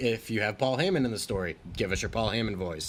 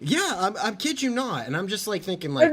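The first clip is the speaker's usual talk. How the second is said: Ryback voice; 8 semitones higher than usual. Pretend. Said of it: "I'm laughing at your ridiculous voices".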